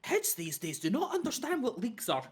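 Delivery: high loud laughing invitation; laughing shopkeeper. Acted. Shopkeeper inviting them in, laughing high and loud. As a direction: breaks up laughing mid-line.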